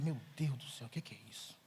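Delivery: low, quiet muttered prayer; dismayed aside. Retold or imitated. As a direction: mutter it to yourself, dropping low. Retold dismayed thought to God. (resmungo desolado, grave e baixinho)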